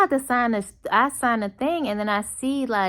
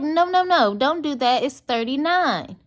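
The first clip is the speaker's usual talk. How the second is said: urgent protest; 6 semitones higher, 4 dB louder than usual. Retold or imitated. Arguing with waitress over receipt.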